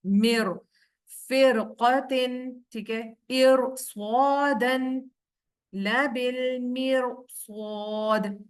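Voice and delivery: slow, drawn-out tajweed recitation; Quran recitation. Shown as a demonstration. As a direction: recite each syllable slowly with heavy r. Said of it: "इस वाली रॉ को मोटा पढ़ा जाएगा". (धीमी तिलावत)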